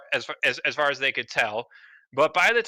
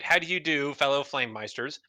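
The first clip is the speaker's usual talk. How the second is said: casual intonation; 3 dB quieter than usual. Retold or imitated. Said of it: "casually intonate".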